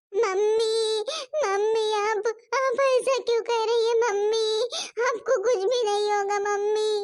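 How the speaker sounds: tearful pleading through sobs; a child sobbing, begging her mother not to die; crying. Acted. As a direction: beg through tears, voice wet with crying. Child crying over burning mother.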